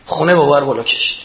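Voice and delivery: ordinary talk, nothing marked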